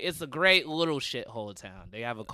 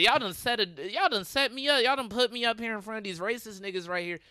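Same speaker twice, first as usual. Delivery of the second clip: mock outrage on stage; 9 semitones higher than usual. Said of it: "And I said".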